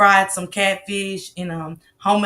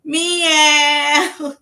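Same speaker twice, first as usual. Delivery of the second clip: mock cat meow; 8 semitones higher, 3 dB louder than usual. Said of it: "I ain't hearing shit going".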